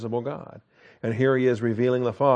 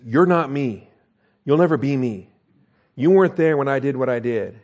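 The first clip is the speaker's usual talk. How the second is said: sanctified sarcasm; 3 dB louder than usual. Acted. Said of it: "sanctified sarcasm".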